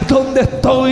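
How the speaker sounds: desperate cry. Retold or imitated. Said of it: "empiezo a gritar".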